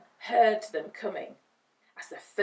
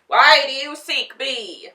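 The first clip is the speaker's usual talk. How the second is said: huge loud roar; roaring beast; 6 semitones higher, 15 dB louder than usual. A narrator's reading. Beast roars at the Tin Man, loud. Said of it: "roared the beast".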